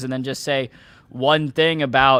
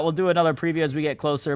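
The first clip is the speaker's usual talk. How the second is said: ordinary delivery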